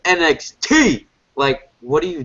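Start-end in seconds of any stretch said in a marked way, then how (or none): 0.1-1.1 high, slow mock gangster shout; imitating Carmella. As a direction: drag out each letter like a wannabe tough girl. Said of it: "She's like".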